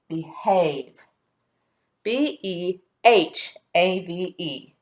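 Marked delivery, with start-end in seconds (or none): 2.0-4.7 slow letter-by-letter spelling. Shown as a demonstration. Teacher confirming the spelling for pupils, slowly spelling out. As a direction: spell it slowly, then give the whole word. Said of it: "spells behave".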